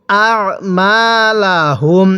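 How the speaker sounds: আ squeezed in the throat as an Arabic ayn, not a hamza; throat-pressed ayn. Shown as a demonstration. Teacher shows learners the ayn, আ pressed from the throat. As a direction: press the throat on আ, then মা লা হুম. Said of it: "গলার মধ্যে চাপ দিয়ে".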